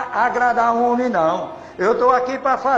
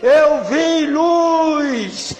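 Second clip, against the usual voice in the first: slow, loud emotional outburst of a stranger; a lightly voiced stranger exclaiming he saw light; retold man crying out; 3 semitones higher, 3 dB louder than usual. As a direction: play the drunk man shouting through tears. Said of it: "o homem veio gritando, chorando".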